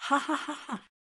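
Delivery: a burst of spelled-out ha ha laughter; helpless laughter. Acted. Townsman laughing at the crying butcher, helpless laughter. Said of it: "Countless laughter came from all directions".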